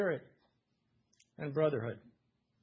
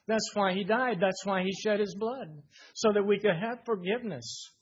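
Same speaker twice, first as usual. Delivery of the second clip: fervent preaching; 4 semitones higher, 4 dB louder than usual. Real, not acted. Preacher's climax on the cross.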